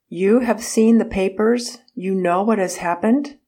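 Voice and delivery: urgent, breathless question, pitch rising. Retold or imitated. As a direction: rush the question out, agitated. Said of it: "asked breathlessly".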